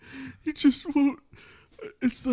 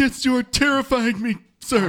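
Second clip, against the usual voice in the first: loud recruit reply; 4 semitones higher, 10 dB louder than usual. Acted.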